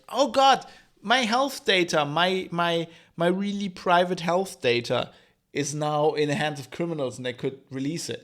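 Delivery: mocking people who panic over leaked health data; mock outrage. Mocking outraged patients over their leaked health data, mock panic. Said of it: "people are now outraged".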